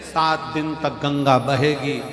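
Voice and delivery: preaching holy man. Acted. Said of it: "महाराज जी प्रवचन में बार बार".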